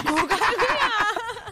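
squealing laugh, very high; high burst of laughter. Real, not acted. (높은 소리로 터지는 웃음)

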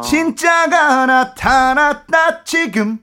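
진짜가 sung high and loud, slow; stress on 지금. Shown as a demonstration. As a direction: land hard on 지금. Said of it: "지금도 뭐 포인트라고 할 수 있고요".

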